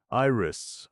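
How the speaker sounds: calling out. Acted. Calling for Iris.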